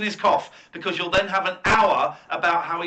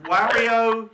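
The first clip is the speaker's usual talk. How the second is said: louder, higher game-character name call; Wario impression; 4 semitones higher, 6 dB louder than usual. Host mimics the caller's game character, Wario impression. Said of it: "Wario says his name".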